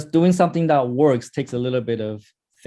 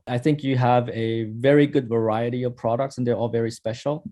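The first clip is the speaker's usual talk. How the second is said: personal friendly opener; 3 semitones lower than usual. Shown as a demonstration. Teacher demos the good call to a shoe store owner, friendly praise. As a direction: win the owner over with genuine compliments. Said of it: "And two".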